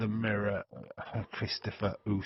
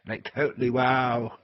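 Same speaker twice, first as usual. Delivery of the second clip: mock mean-girl gush with a louder wow; 3 semitones higher, 5 dB louder than usual. Teasing about the disliked wrestler in mock mean-girl voice. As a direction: lightly put on airhead girl talk. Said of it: "You sound like a mean girl".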